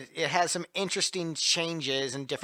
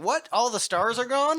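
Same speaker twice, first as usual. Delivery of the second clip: shocked Spaceman; 8 semitones higher, 4 dB louder than usual. Retold or imitated. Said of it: "I'd be pissed if I was the Spaceman".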